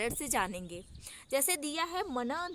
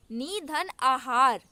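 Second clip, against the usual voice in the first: slow emphatic reading; 5 dB louder, slower than usual. Shown as a demonstration. Teacher slowly reads निधन आहार to show the join. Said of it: "जब हम इसको बोल रहे हैं ना".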